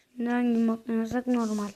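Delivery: talking while chewing gum; words around a piece of gum. Real, not acted. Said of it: "sakız çiğniyorum bu arada".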